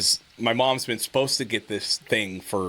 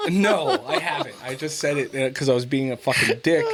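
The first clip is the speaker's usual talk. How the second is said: raised, giggly reply; laughing admission; 3 semitones higher than usual. Retold or imitated. Son answers his sister, laughing at himself. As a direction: laugh while owning up. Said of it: "And I'm like".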